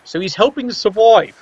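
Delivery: hoping leaned on, held a little longer; stress on hoping. Real, not acted. Commentator doubting the coach's plan, stressing hoping. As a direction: lean on the word hoping, a touch ironic. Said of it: "I stress the word hoping".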